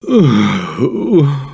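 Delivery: long, low sigh; weary sigh. Acted. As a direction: let out a drooping sigh. Left waiting, alone.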